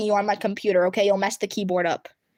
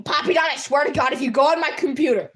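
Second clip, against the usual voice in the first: sudden raised-voice warning; exasperated, higher warning to a misbehaving cat; scolding a pet; 3 semitones higher, 3 dB louder than usual. Real, not acted. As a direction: warn the pet off in alarm. Scolding pet heading for computer.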